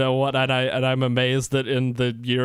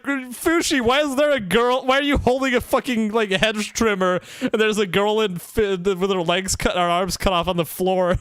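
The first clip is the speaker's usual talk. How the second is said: alarmed character voice; 6 semitones higher than usual. Retold or imitated. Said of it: "He's like".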